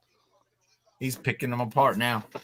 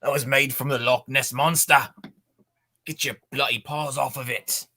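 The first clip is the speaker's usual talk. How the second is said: hammed-up, unconvincing Scottish accent; badly faked Scottish burr; 2 semitones higher than usual. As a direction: do a terrible mock Scot. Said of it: "the worst Scottish accent I have ever heard".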